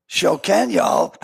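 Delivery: lightly attempted Southern accent. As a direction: try a quick, bad Southern accent. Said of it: "Can you do a Southern accent".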